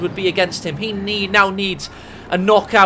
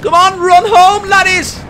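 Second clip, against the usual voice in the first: put-on Scottish accent; 11 semitones higher, 8 dB louder than usual. Caster taunts retreating Welshmen, shouted Scottish accent. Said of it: "That was a Scottish accent".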